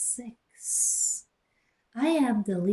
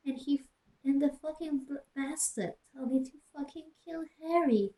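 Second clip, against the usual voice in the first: hammed-up weepy Ebony; 6 semitones higher than usual. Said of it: "I burst into tears".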